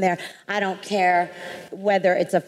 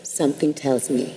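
Oprah's voice; 6 semitones lower than usual. Retold or imitated. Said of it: "That's Oprah's voice".

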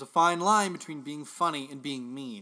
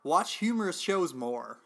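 deliberate, slightly raised presenter reading; article read-aloud. Acted. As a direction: read out the steps like a how-to guide. Reads out advice steps.

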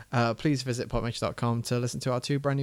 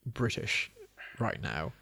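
slow, pinched-nose drawl; nasal voice; 4 semitones lower, much slower than usual. Shown as a demonstration. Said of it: "So I'm closing my nostrils".

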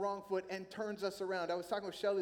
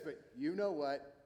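insinuating accuser; 3 semitones lower than usual. Acted. Accuser's repeated low catchphrase.

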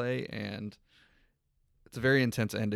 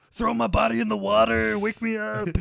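much higher and louder, a hammed-up plea to be thrown in the water; pleading mock voice; 13 semitones higher, 9 dB louder than usual. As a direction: beg like a limp body that wants waking. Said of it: "And I was like".

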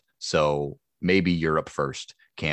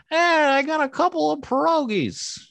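very high, strange squeaky voice; weird voice; 4 dB louder than usual. Shown as a demonstration. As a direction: go as weird as you can. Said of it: "I would just go weird, weird".

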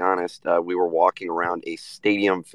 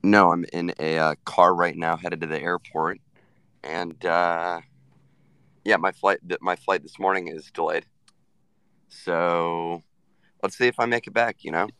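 hoarse, fading voice; rough voice almost gone; voice giving out. Real, not acted. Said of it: "You sound like you drank a lot of beer".

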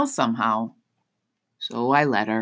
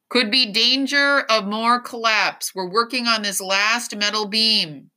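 raised, carrying firefighter's announcement; megaphone yell; 7 semitones higher than usual. A narrator's reading. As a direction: call the warning out over a crowd. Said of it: "a firefighter with a megaphone yells".

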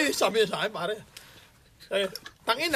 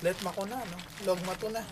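Mayor impression; 2 semitones lower, 8 dB quieter than usual. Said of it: "ikaw ba yan, Mayor?".

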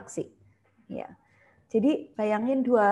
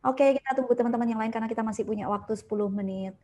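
cheerful greeting; faster than usual. Shown as a demonstration. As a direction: welcome the participant warmly and lively. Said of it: "kita bilang". (sapaan ceria ke peserta yang baru masuk)

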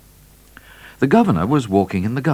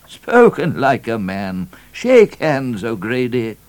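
hearty, raised governor's exclamation; cheered cry; 5 semitones higher, 5 dB louder, slower than usual. A narrator's reading. Governor congratulating the trooper on his fighting speech, cheered. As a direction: cry it out with renewed cheer, pitched up. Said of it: "cheered up tremendously at this fighting speech and cried".

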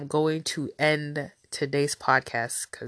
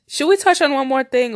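nasal voice; 9 semitones higher, 6 dB louder than usual. Real, not acted. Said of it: "my nasally self".

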